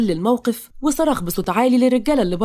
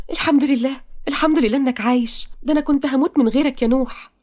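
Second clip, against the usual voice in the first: higher, heartfelt female lead; relieved heroine; 5 semitones higher than usual. Acted. Heroine learns her beloved lives, deeply relieved. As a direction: thank God in a raised, emotional voice.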